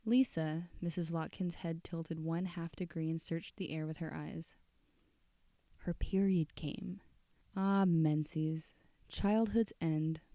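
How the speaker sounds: soft, measured storytelling voice; story narration. A narrator's reading. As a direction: read it like a quiet dark tale at night. Reads the story aloud.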